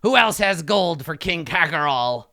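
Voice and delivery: a hint of a boastful kobold ruler; gloating kobold king. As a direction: crow over the crowd. King gloats, cheering court.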